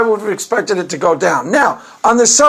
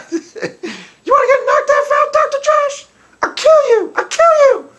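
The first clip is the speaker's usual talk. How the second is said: high, laughing mock-gangster threat; squeaky tough-girl taunt through a laugh; Stephanie imitation. Imitating Stephanie threatening Doctor Josh, high mock-tough voice. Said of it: "my Stephanie imitation".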